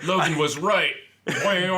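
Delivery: high, loud mock Logan squeal; aroused Wolverine. Friend mocking Wolverine's reaction, high loud squeal. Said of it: "He's like".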